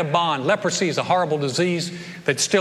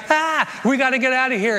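much higher, panicked yelp; hammed-up fleeing soldier; mock panic; 5 semitones higher than usual. Syrian soldiers fleeing the army sound, in mock panic. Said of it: "the Syrians are like".

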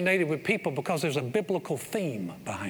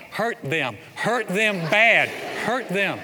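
mock cheering; 4 semitones higher, 5 dB louder, much slower than usual. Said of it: "you're like".

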